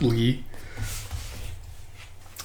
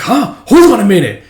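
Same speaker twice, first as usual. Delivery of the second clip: high indignant huh; 8 semitones higher, 8 dB louder than usual. Retold or imitated. Character objecting.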